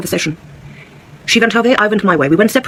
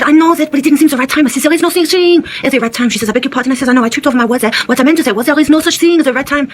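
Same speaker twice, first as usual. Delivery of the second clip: put-on higher-pitched German accent slipping towards French; German accent drifting French; 5 semitones higher than usual. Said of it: "changing from German to French".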